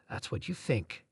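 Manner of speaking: quiet and low; soft. A narrator's reading. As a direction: say it softly, almost pitying. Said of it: "she said softly".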